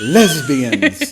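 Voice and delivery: high, loud mock-shocked repeat of the word; mock shocked echo. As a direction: squeal it back in fake outrage.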